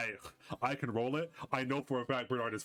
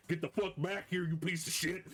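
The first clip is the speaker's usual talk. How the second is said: yelling from afar; 4 semitones higher than usual. Acted. Bernard chasing the deer through the forest, mock yelling. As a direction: yell after fleeing prey at half volume. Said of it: "the sound of Bernard yelling".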